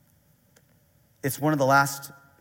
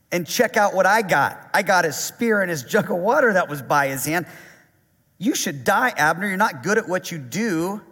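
mildly sarcastic, teasing taunt, a little louder; mock trash talk; 2 semitones higher, 4 dB louder than usual. David taunting Abner across the gulf, lightly mocking. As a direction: needle him like a smug rival, lightly. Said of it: "Talking a little smack. Kinda like that".

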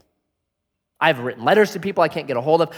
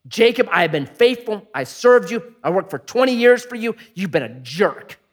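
aggrieved complaint; 4 semitones higher than usual. Acted. Jacob complaining to Laban.

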